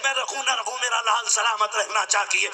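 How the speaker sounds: a hint of a pleading mother, kept in the preaching voice; mother speaking through the preacher, lightly voiced; mother's plea. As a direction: voice the mother giving herself up, understated. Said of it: "ماں کی زبان سے جملہ نکلتا".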